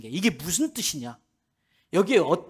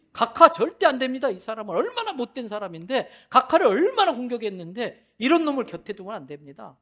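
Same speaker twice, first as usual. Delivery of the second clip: urgent protest; 5 semitones higher, 6 dB louder than usual. Retold or imitated. Aides urgently protest appointment.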